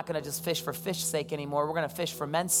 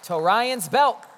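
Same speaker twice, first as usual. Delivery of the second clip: drawn-out call; 7 semitones higher, 10 dB louder, much slower than usual. Real, not acted. Playful nickname called to the crowd.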